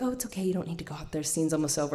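soft, quick gentle aside; imitating a gentle, hushed reassurance. Stage manager holding back an eager child, gently. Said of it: "woman just gently is like".

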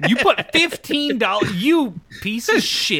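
high, loud outraged yell; outraged shout. Real, not acted. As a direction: shout in disbelief. Outraged at fifteen dollar price.

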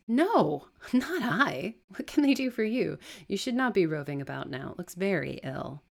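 sharp high, loud refusal easing to firmness; lightly voiced stern servant sending someone off; wary servant turning away. Servant refusing the beggar at the door, firmly.

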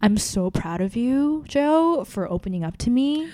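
imitating gushy, condescending approval; patronizing praise. Date praising her for opening up, mock patronizing. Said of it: "it was so patronizing".

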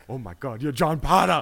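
delighted Irish fan, imitated; imitated Irish accent. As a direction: do an Irishman recognising his hero, building to the name. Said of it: "in that fucking accent, that beautiful, wonderful accent".

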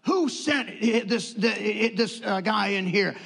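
mock-indignant doctor snapping who sent him; rude doctor. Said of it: "he goes".

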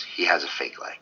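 whispered warning under the breath. Retold or imitated. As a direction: breathe it out, for her ears only. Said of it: "And Jamie goes".

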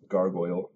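"gargoyle" said as GAR-goyl; plainly corrected "gargoyle", ending in -goyl; correct pronunciation. Shown as a demonstration. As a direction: model "gargoyle" with an oy in the second syllable. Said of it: "It's pronounced".

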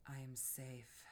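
low, soft and rooted; a quiet, grounded voice; grounded mantra. Shown as a demonstration. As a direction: say it from deep in the body. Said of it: "finding that voice from your root space".

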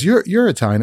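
high-pitched, stammered surprised question; retold surprise. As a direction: imitate a friend's disbelief, pitch jumping up. Friend surprised by his nationality.

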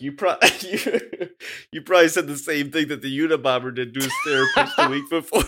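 laughing while shouting the joke; can barely get it out. Real, not acted. Joke quote, cracking up.

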